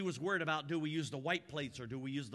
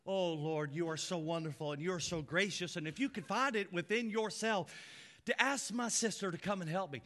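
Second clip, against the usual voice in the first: polite prayer. Acted. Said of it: "She has to".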